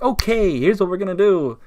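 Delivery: mock manager. Newly promoted guy acts like he's boss, mock authority. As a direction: take charge like a pretend manager. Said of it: "acts like he's the manager".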